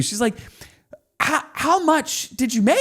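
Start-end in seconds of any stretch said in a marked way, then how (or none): 1.2-2.8 imitating his wife, much higher and laughing; a laughing, high-pitched mock of his wife asking; curious wife. Husband imitating his wife asking about the sale, high and laughing.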